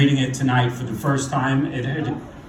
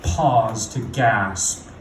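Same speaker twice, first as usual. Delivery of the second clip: poem recitation; 3 dB louder than usual. Acted. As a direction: recite it deliberately, leaning into key words, falling at line ends. Recites own poem on stage.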